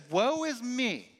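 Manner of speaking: lamenting. Retold or imitated. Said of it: "what you would say at funerals when you're lamenting".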